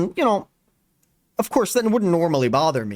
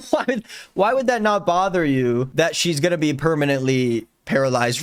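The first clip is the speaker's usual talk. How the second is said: laughing disbelief. Real, not acted. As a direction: ask it in amused disbelief, voice jumping up. Incredulous reaction to Zeke's quote.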